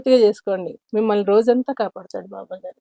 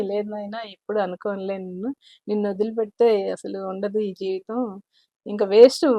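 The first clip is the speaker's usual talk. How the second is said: softer, gently coaxing tone; tender coaxing; 2 semitones lower, 6 dB quieter than usual. Retold or imitated. Devotee making up with Baba, softly tender. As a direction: coax him back softly, like soothing a child.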